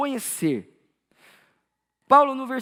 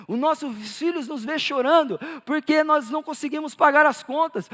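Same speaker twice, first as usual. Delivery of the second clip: preaching; 5 semitones higher than usual. Real, not acted. Pastor reproaching parents who never weep for souls, mounting preaching. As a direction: hammer each repetition, then burst out on the last.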